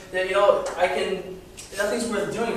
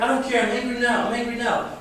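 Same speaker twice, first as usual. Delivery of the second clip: put-on whiny frustrated kid; 4 semitones higher than usual. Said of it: "But you're gonna feel better".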